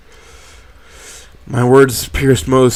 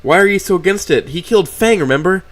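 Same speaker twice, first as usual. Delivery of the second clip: barely contained anger; 8 semitones higher, 4 dB louder than usual. A narrator's reading. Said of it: "my voice barely containing my anger".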